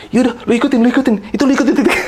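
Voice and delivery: high, laughing instruction; high laughing push to follow the dot; laughing urging. Retold or imitated. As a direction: urge him on while laughing. Urging friend toward white dot.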